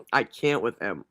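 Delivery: laughing through the words; laughing disbelief. Real, not acted. Commentator cracking up at his story, laughing. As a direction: laugh it out, you can't believe him.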